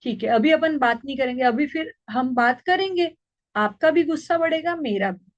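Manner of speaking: put-on calm an angry child tenderly; lovingly. Shown as a demonstration. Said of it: "प्यार से बोलिए". (गुस्साए बच्चे से माँ का प्यार भरा, शांत स्वर)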